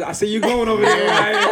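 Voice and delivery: teasing. Real, not acted. Teasing Ryan about going over there, amused. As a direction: tease him lightly, amused. Teases Ryan, first take.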